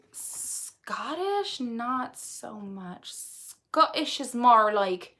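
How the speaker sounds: slow Scottish attempt slipping into Irish; wobbly Scottish, nearly Irish; attempted Scottish accent. Shown as a demonstration. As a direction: try a drawn-out Scottish accent. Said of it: "no, I just can't. It just goes Irish again".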